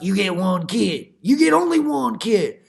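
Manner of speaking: lightly hammed decree from China; stern decree. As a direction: bark the rule like a strict authority. Voicing China's one-child rule.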